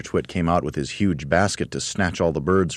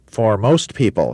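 slow, higher, grand bird voice; grand roly-poly bird; 5 semitones higher, 6 dB louder, slower than usual. Acted. Roly-poly bird boasting to the monkeys, grandly. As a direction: puff up like a vain bird.

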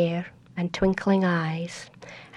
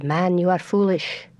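cold proud tree. Acted. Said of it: "the great tree looked down and said".

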